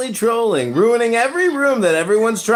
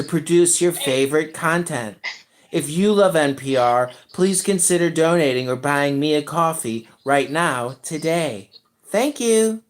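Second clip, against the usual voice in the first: low, smooth announcer voice sending up a pledge drive; mock public radio appeal; 9 semitones lower, 4 dB quieter than usual. Parody pledge drive to listeners, in a low announcer voice. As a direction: play it like a deep-voiced radio host begging for donations.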